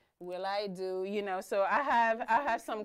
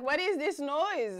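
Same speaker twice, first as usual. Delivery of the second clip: slow, higher-pitched startled question; drawn-out, raised "what is this"; retold alarm; 5 semitones higher, 4 dB louder, slower than usual. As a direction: recreate your puzzlement at a strange noise. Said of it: "I was like".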